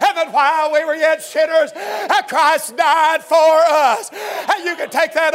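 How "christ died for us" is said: slow, louder, drawn-out cry; preaching climax. Acted. Preacher proclaiming Christ's death to the church, slow and loud. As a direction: stretch every word for the climax.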